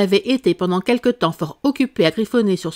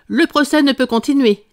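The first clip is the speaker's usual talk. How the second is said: raised, louder solemn pronouncement; very grave declaration; 6 semitones higher, 5 dB louder than usual. A narrator's reading. King halting the trial, very grave. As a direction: declare it gravely to the whole court. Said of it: "déclara le roi d'un ton fort grave".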